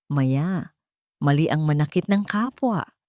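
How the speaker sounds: a touch of calm tenderness; gently. Acted. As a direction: ease the scolding out kindly. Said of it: "sabi niya ng mahinahon".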